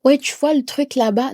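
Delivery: casual, careless pointing; sloppy vague talk. Shown as a demonstration. Teacher mimics someone vaguely naming a thing, careless. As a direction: toss it off lazily. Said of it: "utilise le genre".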